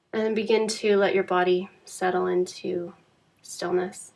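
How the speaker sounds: calm, unhurried Yoga Nidra guidance with long pauses; measured meditation teacher voice, phrase by phrase; guided meditation. Acted. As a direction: guide a resting listener gently, leaving space between phrases.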